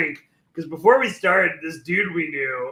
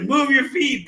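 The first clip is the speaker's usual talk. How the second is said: high, raised urging; imitated exasperated order; 8 semitones higher, 4 dB louder than usual. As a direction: mimic a friend ordering harder, pitched well up. Dragging drunk friend, order escalates.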